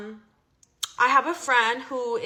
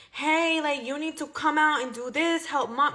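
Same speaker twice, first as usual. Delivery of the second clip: mock bossy sister, pitched higher; very demanding; 4 semitones higher than usual. Sister barging in demanding he help mom, mock bossy tone. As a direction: bark orders like a pushy older sister. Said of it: "like, very demanding".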